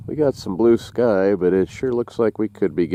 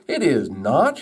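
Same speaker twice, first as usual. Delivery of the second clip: higher, lightly acted contradiction; mock arguing; 5 semitones higher than usual. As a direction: contradict it as a squabbling joke character. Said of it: "they argued back and forth".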